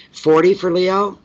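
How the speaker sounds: can't believe how long it is; surprised disbelief. Real, not acted. To herself, shocked at the Leo video length, incredulous.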